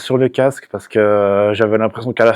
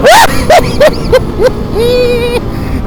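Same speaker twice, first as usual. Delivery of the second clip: excited whoop; 3 dB louder, slower than usual. Real, not acted. Opens the throttle.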